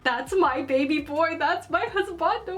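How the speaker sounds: retold fangirl gushing; fangirl squeal. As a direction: gush over him like a proud fan. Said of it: "I was just like".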